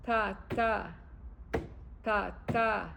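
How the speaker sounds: "ta, ta" in paired weak-strong beats; iambic stress. Shown as a demonstration. Teacher showing what the iambic is, second syllable stressed. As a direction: pause between pairs, lean on the second "ta". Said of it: "the iambic is so this".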